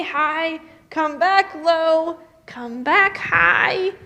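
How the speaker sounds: slow sing-song rhyme; reading a nursery rhyme to children; children's finger rhyme. Acted. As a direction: chant it gently for little ones.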